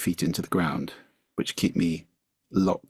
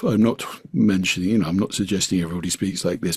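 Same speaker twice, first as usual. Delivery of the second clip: exaggerated deep voice; faster than usual. Shown as a demonstration. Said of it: "not in a sort of".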